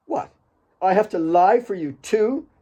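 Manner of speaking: rising, incredulous question; surprised Kate. Acted. Kate startled at being asked to lie for Alex.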